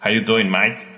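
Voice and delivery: lightly imitated Australian slurred greeting; Aussie greeting. Showing what the travellers said, imitated Aussie accent. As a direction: run it together like a casual Australian. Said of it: "lo que ellos decían era".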